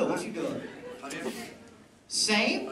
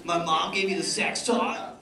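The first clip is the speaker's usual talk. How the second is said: white friend complaining; 4 semitones lower than usual. Retold or imitated. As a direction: imitate a white friend's grumble, lightly. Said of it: "My white friends would complain".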